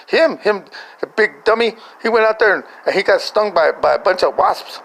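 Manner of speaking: retold scolding from mom; exasperated blaming. Mom blames Victor, retold.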